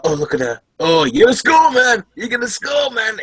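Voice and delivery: mimicking a fawning sidekick hyping up his friend; mock eager egging on. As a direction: hype him up like a fawning sidekick. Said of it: "And it's like".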